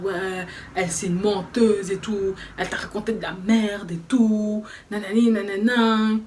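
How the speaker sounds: lightly voiced ranting man, dragged out; mock angry boyfriend. Boyfriend accusing his girlfriend, mocked in a slow whiny voice. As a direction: mimic him whining accusations. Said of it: "il commence à crier".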